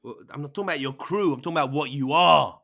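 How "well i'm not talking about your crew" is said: usual speaking voice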